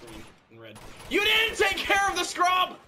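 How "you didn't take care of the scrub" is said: high, loud furious yell; angry shout. Real, not acted. Gamer yelling at an NPC, angry. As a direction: blast it at the screen.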